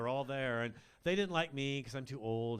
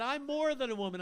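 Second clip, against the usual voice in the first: high mock woman; 10 semitones higher, 7 dB louder than usual. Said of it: "and she said".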